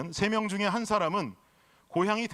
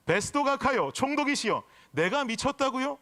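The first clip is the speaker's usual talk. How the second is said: lightly voiced protest to a governor, pitched higher; lightly acted Paul; 5 semitones higher than usual. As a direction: retell the verse as a mock-incredulous appeal. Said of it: "바울이 이르되". (살짝 높여 되묻는 바울 연기)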